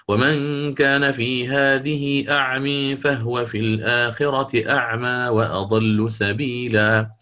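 slow recitation, first أعمي leaned toward e and second أعمى open; imala on first أعمي. Shown as a demonstration. Teacher slowly reciting the verse, imala on the first أعمي only. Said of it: "هذه قيل فيها كلام".

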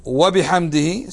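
"سبحان ربي العظيم وبحمده" drawn out very slowly; slow, measured tasbih; slow model recitation. Shown as a demonstration. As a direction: recite it slowly for students to repeat. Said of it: "لو قلت".

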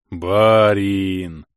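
loud, glad call of a simple servant; happy servant cry. A narrator's reading. Scene: domovoy wakes and greets his master, gladly calling out. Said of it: "счастливо улыбнулся он".

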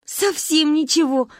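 slow high gleeful reply; cheerful admission. Acted. Girls gleefully admit knowing nothing. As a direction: agree happily. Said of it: "радостно закивали мы".

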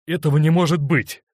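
loud, high cry of disbelief; he can't believe she loves him too, loud exclamation; exclaiming. A narrator's reading. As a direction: burst out in protest. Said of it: "воскликнул он".

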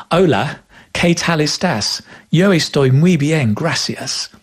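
anglicized Spanish vowels, kay tal, bee-en; Spanish in a strong English tourist accent. Shown as a demonstration. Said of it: "They speak with an English accent".

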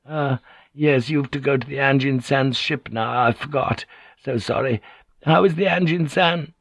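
a hint of feigned forgetfulness; artfully polite Kyoko. Kyoko probing about the Anjin-san, artfully polite.

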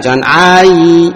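jangan ai with the ai dragged out long, the wrong way; too long ain. Shown as a demonstration. Teacher showing students an over-long ain. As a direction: stretch the ai, as a mistake. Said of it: "jangan terlalu panjang".

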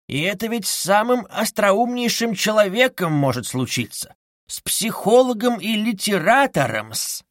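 lightly voiced sly Porfiry, insinuating; a hint of a sly, needling interrogator; sly investigator. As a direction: purr it out like a cunning investigator hinting.

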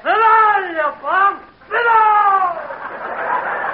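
high jeering yell from the crowd; heckler shout. Acted. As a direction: bark him off the stage.

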